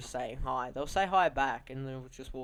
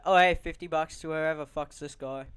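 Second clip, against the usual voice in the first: yelled offer; 6 dB louder than usual. Retold or imitated. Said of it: "I'll yell out".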